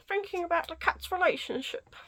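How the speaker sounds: high, amused, close to laughing; barely holding it together; cracking up. Real, not acted. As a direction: voice lifting with suppressed laughter. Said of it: "That cat thing literally cracks me up".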